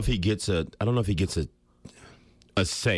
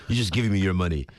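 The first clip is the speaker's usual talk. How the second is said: a deliberately bad, light Croatian accent; mock a teammate in a hammy Croatian accent; Tony Kukoc Croatian accent; 3 semitones higher than usual. Ex-player imitating his Croatian teammate's taunt, bad Croatian accent. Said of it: "You know that Croatian accent".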